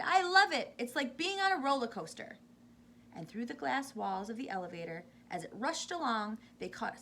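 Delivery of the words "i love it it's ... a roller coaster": high, loud happy shout; thrilled shout. A narrator's reading. Charlie answering Grandpa Joe, thrilled shout. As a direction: shout for joy on the ride. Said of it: "Charlie shouted".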